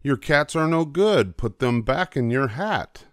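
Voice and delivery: put-on children yelling. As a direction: tell the cat off, raising your voice. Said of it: "we yelled at the cat".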